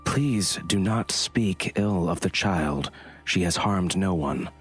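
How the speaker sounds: slow, measured plea; steady and patient, holding anger down; calm plea. Acted. Creature pleads calmly.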